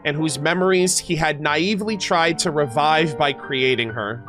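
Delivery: deliberate storybook reading; lore narration. Acted. Streamer reading the story of a loved one, measured narration. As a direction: narrate the backstory with careful phrasing. Reads character lore aloud.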